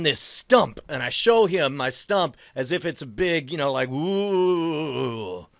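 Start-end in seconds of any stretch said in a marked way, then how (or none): 3.9-5.5 drawn-out ooh. Acted. Imitates showing off his stump.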